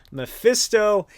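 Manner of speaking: Mephisto said high and slow through a laugh. Real, not acted. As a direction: laugh out the name Mephisto, stretched. Laughing repeat of the name.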